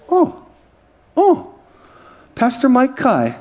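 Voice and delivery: high, slow, delighted "oh, oh"; excited recognition. Retold or imitated. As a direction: gush like a starstruck fan. Agent recognizing him, excited.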